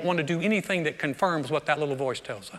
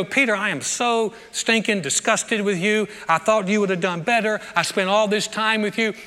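disgusted Jesus; 3 semitones higher than usual. Retold or imitated. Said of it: "he didn't look and go".

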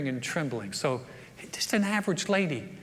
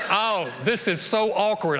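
awkward laughing aside; laughing awkwardness; slower than usual. Retold or imitated. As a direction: laugh at your own discomfort. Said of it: "I was like".

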